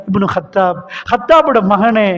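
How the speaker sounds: rising high, pleading don't cry; the Prophet begging a weeping Umar not to cry, high and pleading. Acted. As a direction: coax a weeping friend to stop crying. Prophet voiced consoling weeping Umar.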